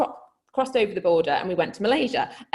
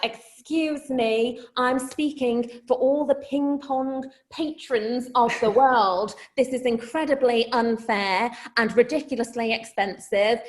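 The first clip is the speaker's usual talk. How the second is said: indignant consumer champion; 2 semitones higher than usual. Retold or imitated. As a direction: lecture them like Anne Robinson. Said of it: "like Anne Robinson from Watchdog".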